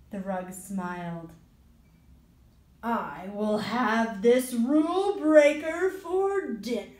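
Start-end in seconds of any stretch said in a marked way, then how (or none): 2.8-6.9 rug monster voice. Acted. The rug threatens.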